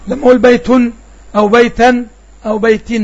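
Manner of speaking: لما أقول بيت with the tanween stressed as a nun; emphatic nunation demo. Shown as a demonstration. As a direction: make the nun at the end of بيتا unmistakable. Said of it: "أنت سمعت نون".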